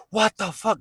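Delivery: "What the fuck?" thrown up very high in a sudden squeal; flipping out. Retold or imitated. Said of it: "Like, he flipped out".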